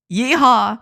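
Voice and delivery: Southern US cowboy yeehaw; Southern American accent. Acted. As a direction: call it with a Southern twang. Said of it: "says it in a Southern American accent".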